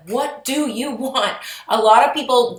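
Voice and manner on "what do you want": "what do you want" slow and drawn out, pitched higher; slow, insistent delivery of "what do you want"; emphatic movie quote. Acted. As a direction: stretch each word of "what do you want" as a pressing question. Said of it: "The Notebook? Like".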